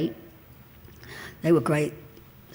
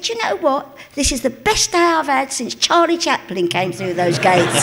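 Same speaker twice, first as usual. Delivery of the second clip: put-on old guard speaking; 7 semitones higher, 6 dB louder than usual. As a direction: savour each word like a proud old guard. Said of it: "he said".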